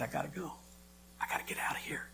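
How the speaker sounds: panicked hush. Retold or imitated. Panic attack at restaurant.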